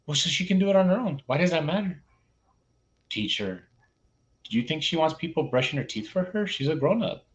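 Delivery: lightly voiced child schooling a grown-up; exasperated student. Student explains to teacher playing dumb, mildly exasperated.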